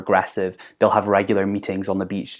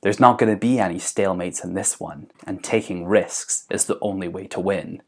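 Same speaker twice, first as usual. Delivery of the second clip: a hint of a menacing villain; menacing Jack. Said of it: "Jack's gonna go".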